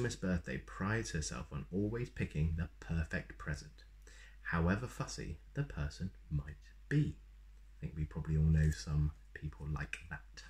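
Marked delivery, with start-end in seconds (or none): 4.4-7.2 whispered aside. Real, not acted. Reader aside while reading aloud.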